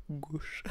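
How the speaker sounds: "gauche" with a rounded O, after false starts; effortful closed-vowel "gauche"; attempted closed O. Shown as a demonstration. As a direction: aim for "gohsh" on "gauche". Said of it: "J'arrive pas".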